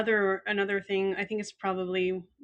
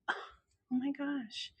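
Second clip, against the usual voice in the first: soft, higher retold gasp of gratitude; touched; 7 semitones higher, 8 dB quieter than usual. Therapist receiving a handmade card, touched. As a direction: imitate being quietly moved.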